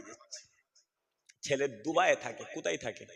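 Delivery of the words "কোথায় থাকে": ordinary talk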